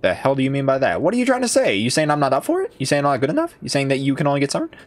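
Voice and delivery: rapid-fire pretend offended questioning; mock indignation. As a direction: challenge them as if playfully insulted. Mock quarrel with game character.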